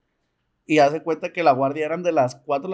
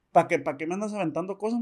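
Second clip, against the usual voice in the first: papá enojado; 3 semitones higher than usual. Retold or imitated. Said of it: "bien enojado".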